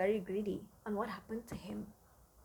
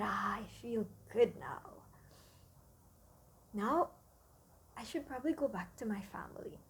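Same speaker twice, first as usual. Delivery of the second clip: satisfied mouse; 4 semitones lower than usual. Acted. Full mouse speaks contentedly.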